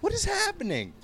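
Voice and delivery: exasperated disbelief. Real, not acted. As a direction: drag it out in total disbelief. Continued disbelief.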